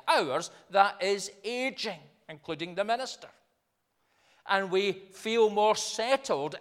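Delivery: slightly lifted, measured pulpit delivery; emphatic preaching. Acted. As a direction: preach it firmly, leaning on key words.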